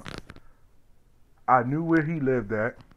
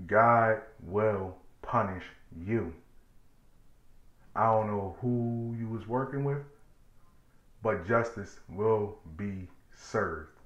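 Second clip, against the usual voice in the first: grandma's warning; 5 dB quieter, slower than usual. Retold or imitated. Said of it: "My grandma's just sitting".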